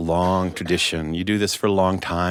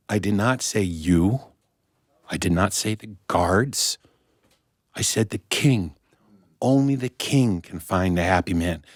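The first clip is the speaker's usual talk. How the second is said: a hint of a patient old sage; stern wise man. Wise man corrects the queen.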